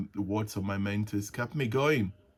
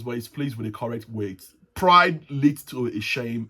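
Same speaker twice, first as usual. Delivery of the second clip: scripture reading. Acted. Reads Proverbs verses aloud.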